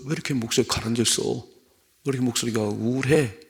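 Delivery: lightly voiced parent on the phone; a touch of parental concern. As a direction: ask like a parent who hears something wrong. Voices parent asking child on phone.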